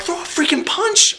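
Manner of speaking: high, slow mock yell. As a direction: bellow it at the fighter on screen. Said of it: "I'm like".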